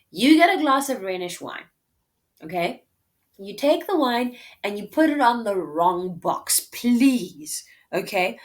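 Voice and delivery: playful Portia. Retold or imitated. Portia paraphrased, plotting.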